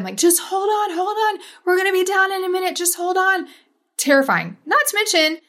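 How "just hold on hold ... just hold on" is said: high, urgent call to hold on; calling to the scared kids to hang on; retold yelling. Mother yelling to the kids in the tube, high and urgent. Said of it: "yelling at them".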